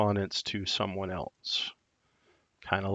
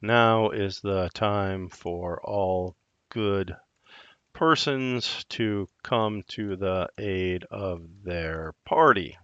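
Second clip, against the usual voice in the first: dictating; slower than usual. Shown as a demonstration.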